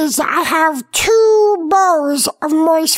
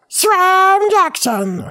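announcer voice; 2 semitones higher, much slower than usual. Acted. Announcing the show's title.

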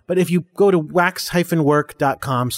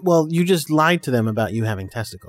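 teasing shout. Acted. Dad teasing the kid.

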